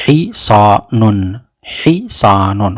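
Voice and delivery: Hisanun said slowly, syllable by syllable; slowly modelled Hisanun. Shown as a demonstration. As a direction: drag out Hisanun for learners. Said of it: "Le cheval, on dit".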